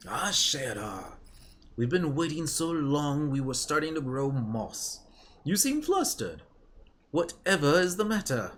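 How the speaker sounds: fussing over a flustered friend; genteel companion. Acted.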